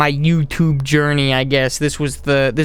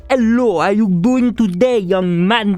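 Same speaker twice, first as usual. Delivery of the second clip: hammed-up Southern country greeting, higher pitched; strong country accent; 4 semitones higher than usual. Shown as a demonstration. Showing his country roots coming out, exaggerated Southern accent. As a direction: lay the country accent on thick. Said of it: "my strong country roots will come out".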